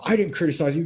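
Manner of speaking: husband mocked for getting defensive. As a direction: pitch up and protest like a sulking boy.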